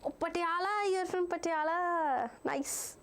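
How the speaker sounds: Punjabi accent slipping into speech. Real, not acted. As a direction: let a natural Punjabi accent show. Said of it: "my Punjabi accent slipped out".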